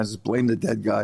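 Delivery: laughing it out; laughing punchline. Real, not acted. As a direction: deliver the joke through a laugh. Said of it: "punchline with laugh".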